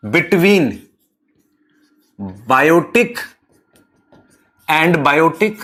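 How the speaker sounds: spaced-out dictation for note-takers; slow dictation. Real, not acted. Teacher giving students the definition to write, slow dictation. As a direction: dictate piece by piece, long pauses between.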